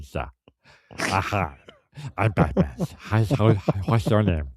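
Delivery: lightly mock a superhero voice slipping; struggling Batman impression. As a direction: parody an accent getting away from its owner. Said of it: "It was kinda getting away from him".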